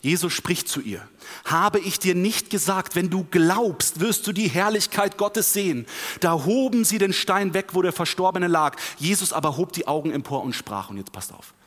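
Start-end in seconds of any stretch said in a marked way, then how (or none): 1.5-8.8 raised, emphatic Bible reading; scripture reading. Acted. Preacher reads Jesus' words to the congregation, emphatic scripture reading. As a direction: read scripture out with force.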